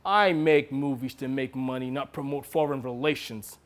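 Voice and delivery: understated, icy authority; cold dismissal. Acted. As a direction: end the argument quietly and firmly. Director coldly closes the argument.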